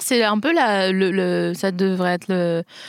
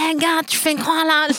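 mock indignant protest; 8 semitones higher than usual. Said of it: "lui dire".

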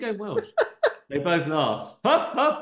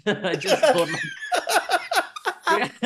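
put-on Indian accent; 4 semitones higher than usual. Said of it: "he's going Indian".

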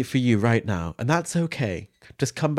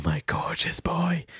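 whispered tenderly; breathed; 5 semitones higher, 5 dB quieter, slower than usual. Acted. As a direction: breathe it like a lover. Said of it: "breathed Jürgen".

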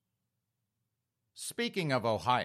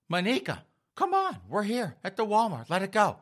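higher, urgent appeal; pleading to calm down; 8 semitones higher, 4 dB louder than usual. Acted. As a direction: talk a furious friend out of a fight. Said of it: "And Precious is like".

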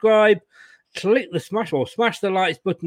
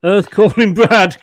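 louder, slower radio call-out; mock mission control; 2 semitones higher, 7 dB louder than usual. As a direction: hail him like ground control calling a lost astronaut. Host calling absent co-host.

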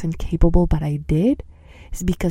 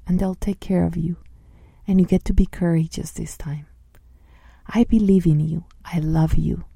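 loving voice. Shown as a demonstration. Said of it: "how does the loving voice sound like".

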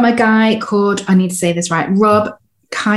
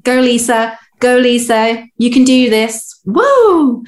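higher, peppy inner cheerleader ending in a high whoop; 4 semitones higher than usual. Retold or imitated. An inner cheerleader rooting for Lisa, peppy cheering. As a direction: cheer yourself on like a pom-pom girl. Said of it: "one being your cheerleader saying".

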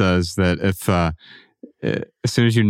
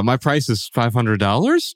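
slow, rising at the end like asking; question inflection; slower than usual. Retold or imitated. Guest retelling the book's unsure price ask. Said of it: "the guy was like".

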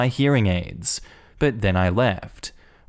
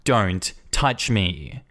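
trembling; 2 semitones lower, much slower than usual. Retold or imitated. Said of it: "I'm trembling at this point".

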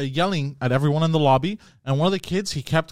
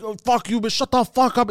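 mock angry gamer yell, higher; hammed-up raging troll; imitated yelling; 6 semitones higher than usual. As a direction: rant like a toxic online player. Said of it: "he's like".

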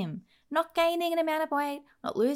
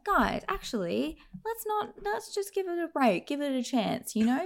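mock pleading; 3 semitones higher than usual. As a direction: plead lightly on someone else's behalf. Acted plea to give film chance.

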